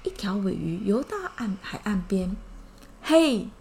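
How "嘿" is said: a bright mock call of hey; light shout of hey. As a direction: call out to those on shore. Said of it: "他大声呼喊".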